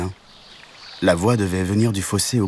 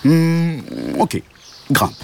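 cow voice; 8 semitones higher, 3 dB louder, much slower than usual. A narrator's reading. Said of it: "dit la vache".

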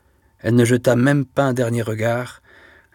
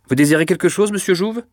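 high, louder call across the room; 8 semitones higher, 4 dB louder than usual. A narrator's reading. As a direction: call out to him from the office. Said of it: "cria Mouret". (appel lancé à voix haute)

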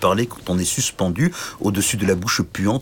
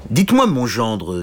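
king; 3 semitones higher, 4 dB louder than usual. Acted. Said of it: "dit le roi".

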